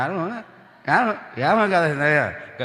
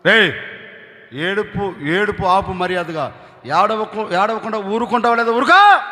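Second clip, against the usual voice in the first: mock anger. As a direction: scold the crying child, losing patience. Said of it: "కోపం వచ్చి". (కోపంగా గదమాయిస్తూ నటన)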